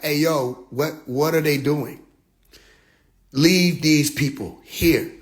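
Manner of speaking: low, slow alien voice; lightly voiced alien. Extraterrestrial telling the others to leave humans, slow low voice. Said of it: "the extraterrestrial got in touch with him and was like".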